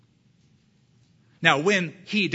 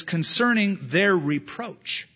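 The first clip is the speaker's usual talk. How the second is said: slow emphasis; 3 semitones higher, slower than usual. Shown as a demonstration. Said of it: "Because it says".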